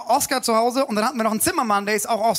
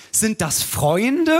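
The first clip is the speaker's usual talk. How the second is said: playing along; much slower than usual. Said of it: "mich so auf sein Niveau zu begeben".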